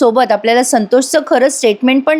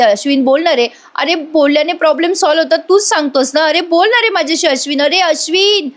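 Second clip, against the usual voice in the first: imitating a begging call, climbing higher; mock desperate plea, pitch rising line by line; pleading after him; 5 semitones higher than usual. Priya follows Ashwin to the door, begging higher and higher. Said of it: "म्हणत असते".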